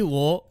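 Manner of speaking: "wo" with the w sounded; spelled-out w sound. Shown as a demonstration. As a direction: say "wo" as it is written. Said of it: "you just pronounce it like o".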